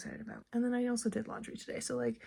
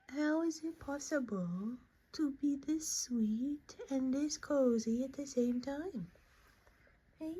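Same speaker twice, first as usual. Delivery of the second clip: slow breathy whisper, higher; adoring whisper; 4 semitones higher, 4 dB quieter than usual. Real, not acted. Mom whispering in awe over her cozy baby. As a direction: marvel quietly so she stays asleep.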